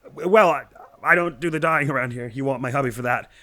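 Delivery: cheerful, a bit harried; bubbly shop greeter. Acted. Voices dye shop greeter.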